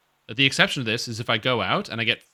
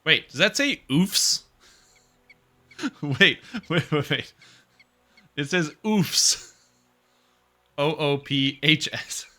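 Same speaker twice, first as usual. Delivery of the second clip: amused disbelief; 5 semitones higher, 5 dB louder, much slower than usual. Real, not acted. Laughing disbelief at oofs sign.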